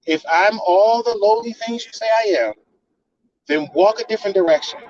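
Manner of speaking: normal talking voice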